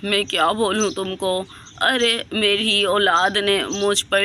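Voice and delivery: a lightly voiced grieving old man; sad old man. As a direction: speak like a broken grandfather. Old man explains his plight.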